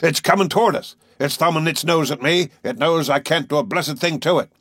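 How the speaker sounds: thrilled and frustrated at the whale; excited. A narrator's reading. Harpooner watching the whale come close, excited. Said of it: "his voice full of excitement".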